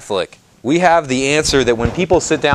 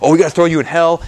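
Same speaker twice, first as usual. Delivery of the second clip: mock condemnation; 3 semitones higher, much faster than usual. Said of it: "they're like".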